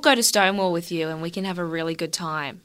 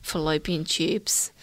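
slow breathy whisper with no voice; slow mock-solemn whisper; 5 dB quieter, slower than usual. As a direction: whisper it like a secret oracle. Mock mystical advice.

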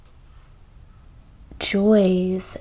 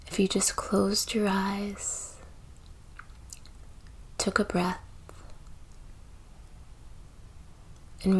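soft, unhurried meditation voice with long pauses; slightly hushed, spacious delivery, letting each phrase settle; guided meditation; 8 dB quieter than usual. Acted. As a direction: gently guide the listener into breath and stillness.

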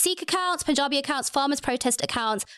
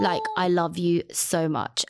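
slow, lower, tearful I love you so much; choked-up, emotional gratitude; real crying; 6 semitones lower, slower than usual. Real, not acted. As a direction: say it through real tears. Moved by a listener's review.

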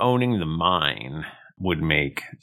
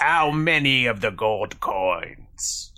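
Granona; 3 semitones higher, slower than usual. Acted. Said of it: "if this was my accent, but it is now".

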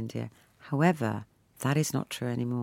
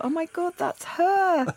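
much higher, exclaimed with glee; delighted recognition; 3 dB louder, slower than usual. Retold or imitated. Mother recalling seeing her daughter in a poster, squealing with delight. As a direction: squeal it as if spotting her child.

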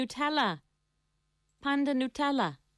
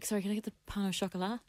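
fast, softer "pan au chocolat" under the breath; 7 dB quieter, faster than usual. Retold or imitated. How Irish people order a pastry, fast mumble. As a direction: mumble it quickly, a bit embarrassed. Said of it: "Whereas we say".

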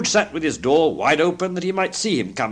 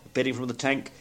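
ordinary delivery, nothing marked

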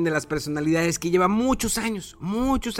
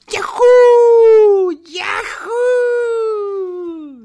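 high, loud anime yell; excited anime fan; 9 dB louder, much slower than usual. Acted. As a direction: shout it like an anime hero. Anime-style hyped intro shout. (grito emocionado de fan del anime)

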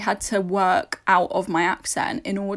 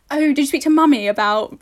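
posh imitation; 5 semitones higher, 5 dB louder than usual. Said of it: "You know how I know Seffi's posh".

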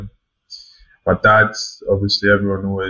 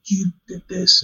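much higher, slow mock-dad accusation; imitating his dad; 11 semitones higher, 4 dB quieter, slower than usual. Son mimics his dad blaming him after a game, high and slow. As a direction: drag it out like a father pinning the blame. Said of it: "And he'd be like".

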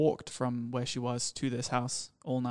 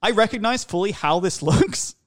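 high, loud plea with a laugh inside; nervous laughing plea; 7 semitones higher, 7 dB louder than usual. Retold or imitated. Shirtless boyfriend to a neighbor, laughing nervous plea. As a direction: explain yourself while laughing nervously. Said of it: "And I'm like".

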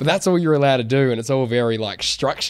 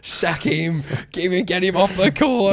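higher, slow, jeering fan rant; mock angry fan; 6 semitones higher than usual. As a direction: sneer like an online critic. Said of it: "everybody's on Facebook going".

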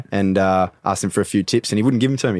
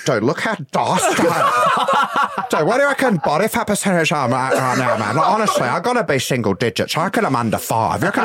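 vain bro voice; 3 semitones higher than usual. Retold or imitated. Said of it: "he goes".

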